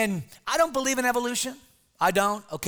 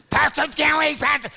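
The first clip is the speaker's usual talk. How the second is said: put-on yelling kid; 5 semitones higher, 4 dB louder than usual. Bobby chanting again.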